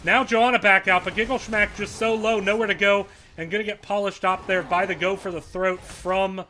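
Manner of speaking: rising hype, fast and loud calls; excited play-by-play. Real, not acted. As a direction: call the team fight at full excitement. Excited casting of team fight.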